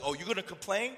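hint of an irritated deity; God. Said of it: "God's like".

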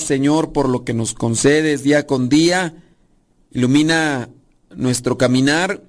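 steady, reverent prayer voice. Acted. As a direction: pray aloud to the listeners. Host leads an opening prayer.

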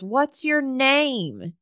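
high, slow call across a store; lightly imitated shout after a departing stranger; mild retold yell. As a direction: call it out to someone far away. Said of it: "she yells and she goes".

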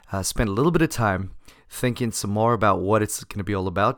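hoarse from laryngitis. Real, not acted. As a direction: speak through a sore, hoarse throat. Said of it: "a sexy smoker's voice".

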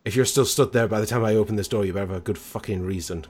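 threatening growl. Acted. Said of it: "kind of sound".

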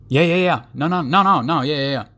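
high, rushed yeah-no babble; hammed-up nervous waffling. Mocking a nervous person answering a lunch question, flustered. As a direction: spit out the yeahs and nos in a flustered jumble. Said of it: "mocking waffling again".

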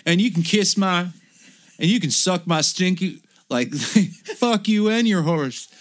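high, loud mock tirade; ranting brother. Brother ranting at the cop, high loud mock fury.

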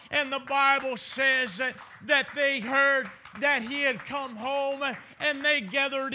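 driving, emphatic sermon cadence; fervent preaching. Acted. Preacher retelling the crowded house in Mark two, fervent preaching. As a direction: push each phrase out to the congregation.

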